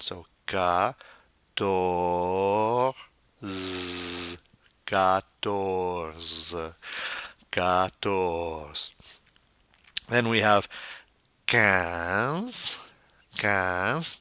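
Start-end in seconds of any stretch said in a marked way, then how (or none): 0.5-8.9 "quatorze" starting with a plain K, no W; slow, syllable-by-syllable "quatorze"; hard K sound. Shown as a demonstration. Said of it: "is always a K sound". 11.5-14.2 "quinze" said with K and a nasal vowel; French "quinze", no W sound. Shown as a demonstration. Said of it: "another nasal".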